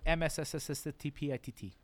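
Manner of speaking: M S S S S T P I T T with a long hissing s; drawn-out s like a snake. Pretend. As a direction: hiss the s of M S S S S T P I T T like a snake. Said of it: "to not have to hear you pronounce that again".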